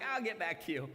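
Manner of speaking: breezy put-off reply; noncommittal. Retold or imitated. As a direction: stall politely like a busy person. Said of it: "we're like".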